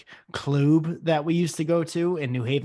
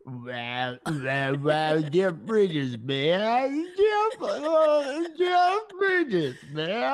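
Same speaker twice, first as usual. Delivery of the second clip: much higher, slow cowboy drawl; high Jeff Bridges; 5 semitones higher, much slower than usual. Pretend. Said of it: "the high is where you gotta go".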